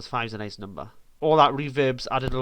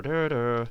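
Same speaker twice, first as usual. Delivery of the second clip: slow burr. Shown as a demonstration. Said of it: "it's gonna be like a slow burr".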